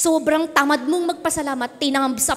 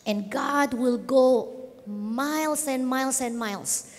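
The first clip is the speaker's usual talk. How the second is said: tender closing appeal. Real, not acted. Climax over music.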